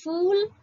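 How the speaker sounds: फूल spoken slowly and carefully, with a strong aspirated ph; careful pronunciation. Shown as a demonstration. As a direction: say फूल clearly as phool, not like English fool. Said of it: "फूल का उच्चारण आप ठीक से कीजिएगा".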